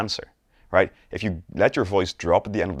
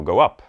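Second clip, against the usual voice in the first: louder lift on "go up"; 6 dB louder than usual. Shown as a demonstration. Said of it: "let the tone of our voice go up".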